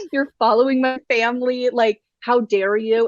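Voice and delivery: imitating an indignant British royal, cracking up; laughing bad British accent; laughing British accent attempt. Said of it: "I can't do a British accent".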